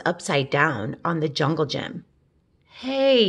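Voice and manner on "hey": a high, loud startled hey; surprised hey. Acted. Ben spotting the tail on the wagon, surprised call. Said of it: "he said".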